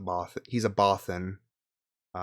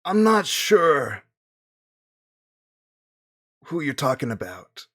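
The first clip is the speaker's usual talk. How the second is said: put-on Italian accent; 6 semitones higher, 6 dB louder than usual. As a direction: drag out the Italian shopkeeper's doubt. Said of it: "It's Italian now?".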